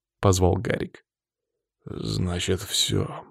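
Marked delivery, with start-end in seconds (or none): 1.9-3.3 forced out. A narrator's reading. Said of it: "выдавил я".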